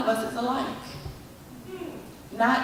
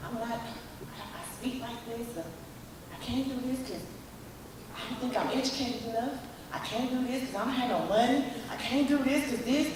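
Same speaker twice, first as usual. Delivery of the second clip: imitating own excuses; 11 dB quieter than usual. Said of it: "I'm giving all these excuses".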